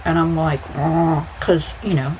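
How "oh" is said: through a full mouth; muffled "Oh" round the gauze. Retold or imitated. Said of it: "my mouth is full".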